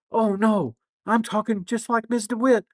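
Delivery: high, loud imitated schoolgirl wail; hammed-up pupil horrified at herself; student's mock dismay. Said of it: "And then she said".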